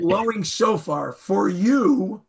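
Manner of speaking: "for you" lifted and drawn out; stress on FOR YOU. Shown as a demonstration. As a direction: make "for you" stick out at the end. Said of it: "put the emphasis on the right syllable".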